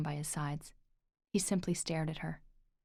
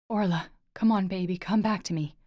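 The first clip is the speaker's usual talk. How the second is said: 1 urgent plea; 7 dB louder than usual. Acted. Lorcan begging Orla to wake.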